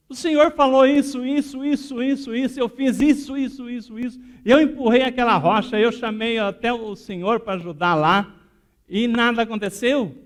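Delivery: high, loud, piled-up complaint; indignant protest. Retold or imitated. Woman complaining to Jesus that nothing happened, high and exasperated. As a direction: list your efforts in loud exasperation.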